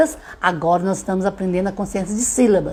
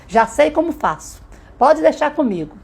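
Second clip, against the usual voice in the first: put-on confident child; 6 semitones higher than usual. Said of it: "ele vai tá assim rapidamente".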